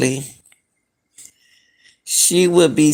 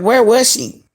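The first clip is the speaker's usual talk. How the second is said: pitched-up disbelief, asking where she was; puzzling over the friend's claim, raised and louder in disbelief; incredulous question; 7 semitones higher, 4 dB louder than usual. Real, not acted. Viewer confused by the friend's story, pitched-up disbelieving question.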